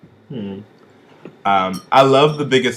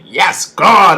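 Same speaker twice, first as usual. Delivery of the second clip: excited gush; 6 semitones higher, 10 dB louder than usual. Retold or imitated. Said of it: "I'm like".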